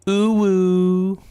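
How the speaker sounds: high, loud, drawn-out ooh woo; cutesy uwu. Pretend. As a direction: coo a long, high uwu for the stream. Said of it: "I'll do more ooh woos".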